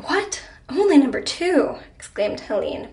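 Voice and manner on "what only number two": high, loud mock-offended question; mock offence. A narrator's reading. Wife reacting to being ranked second, mock offence. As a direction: protest as if affronted, pitched up. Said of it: "pretending to be offended".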